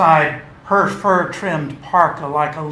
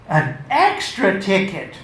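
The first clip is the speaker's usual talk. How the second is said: marveling; 4 semitones higher than usual. Acted. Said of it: "Fallacy marveled".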